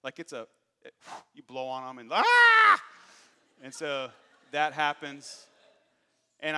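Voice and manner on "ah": sudden high, loud "Ah!" imitating a hurt kid; mock child's wail. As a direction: wail like an overdramatic little brother. Hurt younger kid wails in story.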